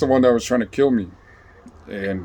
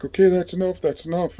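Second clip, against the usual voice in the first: higher-pitched imitation of worried bystanders; onlookers intervening; 9 semitones higher than usual. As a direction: mimic people calling off a fight. Onlookers voiced stopping a beating.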